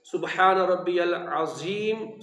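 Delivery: slow العظیم with ز instead of ظ; wrong pronunciation. Shown as a demonstration. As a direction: show the wrong way, slowly. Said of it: "یہ دونوں غلط ہیں". (العظیم غلط، ز کے ساتھ)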